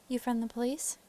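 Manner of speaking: Southern farm wife, voice lifted; Southern accent. Acted. Wife questioning a visiting investigator, Southern accent. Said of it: "doing a Southern accent for a lady".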